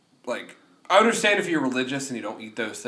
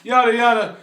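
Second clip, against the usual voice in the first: mocking vegans; 7 semitones higher, 5 dB louder than usual. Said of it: "But people are like".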